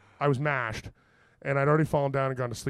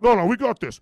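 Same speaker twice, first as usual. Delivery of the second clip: high, loud brush-off; loud, overconfident mock bravado; retold cocky insistence; 7 semitones higher, 10 dB louder than usual. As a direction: shout down the doubters. Four others insist on fighting on.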